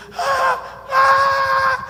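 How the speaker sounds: two high, loud shrieks; imitated terror screams. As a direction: shriek like a cowering, trembling demon. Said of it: "tremia igual uma folha seca". (gritos agudos de pavor)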